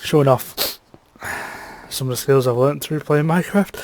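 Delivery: nose whistling through the words. Real, not acted. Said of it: "bless my nose".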